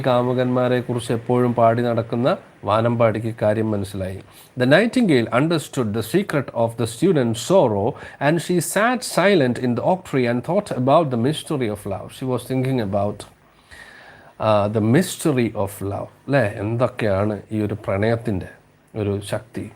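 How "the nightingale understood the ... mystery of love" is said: slow, lilting storybook read-aloud; slow story reading. Acted. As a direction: read it slowly, savouring each phrase. Rereading story passage. (പതുക്കെ കഥ വായന)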